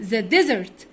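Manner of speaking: desert with a clear z for the s. Shown as a demonstration. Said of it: "الاس هنا بننطقها زد".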